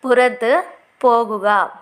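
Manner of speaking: slow, clear teacher repeat of పురతు పోగుగా; slow model repeat. Shown as a demonstration. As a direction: say it slowly so learners can follow. (నెమ్మదిగా, స్పష్టంగా మళ్ళీ చెప్పడం)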